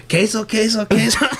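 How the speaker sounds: high sing-song vendor cry, laughing through it; street vendor call. Retold or imitated. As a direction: call out queso like a cheese seller.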